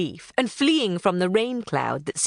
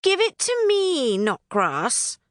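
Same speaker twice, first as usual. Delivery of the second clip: higher, bossy pixie grabbing for it; demanding pixie; 7 semitones higher, slower than usual. Acted. Flittle grabbing the palm from Knotgrass, higher and bossy. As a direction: snap a demand at her sister. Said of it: "Flittle demanded".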